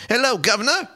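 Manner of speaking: high-pitched, exaggerated mock Cockney greeting; over-the-top British accent. Imitating the mother who woke up British, hammed-up British accent. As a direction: ham up a bad Dick Van Dyke British accent. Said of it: "She's Dick Van Dyke British accent".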